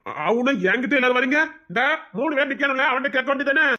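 exasperated complaint. Acted.

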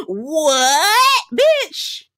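high cracked shriek of disbelief; high shocked squeal. Real, not acted. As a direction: scream out in shock. Shocked reaction to Jody.

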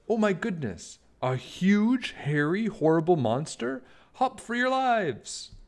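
a rabbit shrieking everyone into hiding; panicked Rabbit. Acted.

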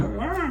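mock scream. Coworker losing it at work, imitated as a high mock shriek. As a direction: imitate her fit with a high "Aa!". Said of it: "Böyle bağırıyor".

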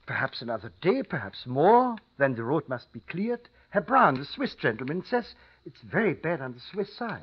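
put-on innkeeper with a thick German accent; formal, polite German-accented English. Innkeeper warns about the storm.

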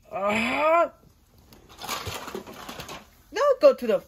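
loud straining battle cry; power-up yell. Acted. Sonic transforming into super form, loud straining yell. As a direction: strain hard as the power surges.

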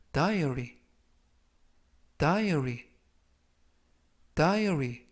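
diary said slowly and clearly; slow model reading. Shown as a demonstration. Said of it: "제가 천천히 세 번씩 읽어드리고요".

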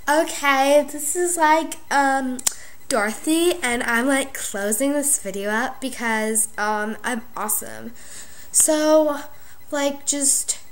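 put-on airhead girl signing off the video; valley girl character. Dorothy character closes the video.

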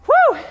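a high cheer that doesn't quite commit; halfway-there workout whoop; half-hearted woo. Real, not acted. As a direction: throw out a lukewarm woo. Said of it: "That was kind of half-hearted woo".

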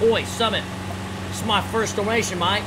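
hammed-up Aussie read of a donation; Australian accent. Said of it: "tried to say it as Aussie as I possibly could".

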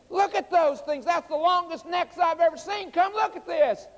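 high-pitched retold wonder; acted-out childlike urgency, voice way up; amazed schoolchildren calling. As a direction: gush like a kid who can't believe it.

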